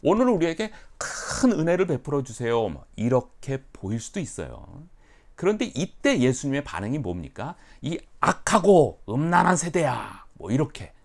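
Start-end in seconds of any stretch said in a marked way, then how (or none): 0.0-2.7 higher, louder petition; prayerful plea. Retold or imitated. Believers asking God for grace, higher earnest plea. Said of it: "하나님께 요구를 하는". 7.8-10.2 loud, higher, slow scolding; stern rebuke. Retold or imitated. Jesus rebuking the crowd, loud stern scolding. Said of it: "아주 질책을 하시는 거예요".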